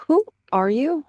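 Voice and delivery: high, rising, wary question; tense. A narrator's reading. She-cat realizing she faces a random rogue, tense. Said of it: "She tensed".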